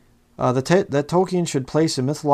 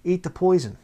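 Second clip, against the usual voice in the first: much higher, softer, sing-song dismissive imitation; high, hushed mock reassurance; mock complacent; 5 semitones higher, 5 dB quieter than usual. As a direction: lampoon the easygoing preacher, airy and soft. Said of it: "sits there and says".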